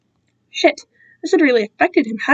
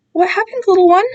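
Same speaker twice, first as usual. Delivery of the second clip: concerned; 7 semitones higher, 3 dB louder than usual. Acted. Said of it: "sounding genuinely concerned".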